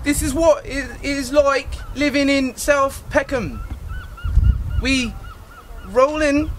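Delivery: faltering mock Cockney with long pauses; unconvincing Cockney street talk; attempted Cockney accent. Shown as a demonstration. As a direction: make up Cockney slang as you go. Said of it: "do a better Cockney accent".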